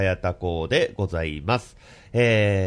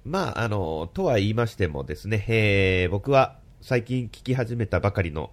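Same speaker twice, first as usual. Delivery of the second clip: blocked nose from hay fever; stuffy nose. Real, not acted. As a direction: speak through a stuffy nose. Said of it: "鼻声ではあるんですけれども".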